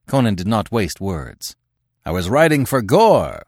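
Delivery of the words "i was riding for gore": a raised, carrying roar. Acted. Conan calls down from the cliff to the horsemen, roaring. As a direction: roar it out, pitched up and loud. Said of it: "he roared".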